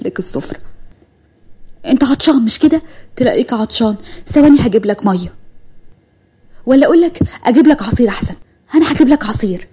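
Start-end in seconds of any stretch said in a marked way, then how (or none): 1.9-9.7 eager fussing mother. Acted. Mother fussing over returning son.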